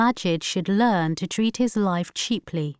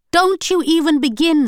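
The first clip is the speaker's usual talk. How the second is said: loud, much higher furious scream; 10 semitones higher, 7 dB louder than usual. A narrator's reading. Wife screaming at husband to stop, furious. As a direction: cut him off sharply. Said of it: "screamed Alsana".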